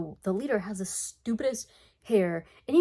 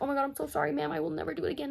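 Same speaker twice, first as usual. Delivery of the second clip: put-on high, soft pleading kid voice; higher-pitched retold grovelling; mock frantic apology; 7 semitones higher, 4 dB quieter, faster than usual. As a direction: imitate a kid begging forgiveness in a higher pitch.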